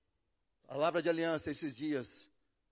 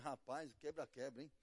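teasing aside; 4 semitones lower, 10 dB quieter than usual. Retold or imitated.

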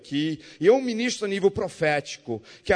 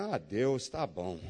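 much softer and lower, sighing defeat; resigned giving in; 7 semitones lower, 8 dB quieter, slower than usual. Retold or imitated. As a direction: let it fall away in surrender. Giving in to God.

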